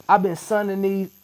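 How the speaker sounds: loud, high joking claim broken by laughter. Real, not acted. Guest jokes about his children count, loud and laughing. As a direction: fake boast then laugh it off.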